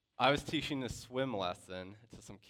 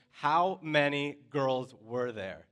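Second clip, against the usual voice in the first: slow, louder mock demand; retold scream; 4 semitones higher, 5 dB louder, slower than usual. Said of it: "I scream at those counselors".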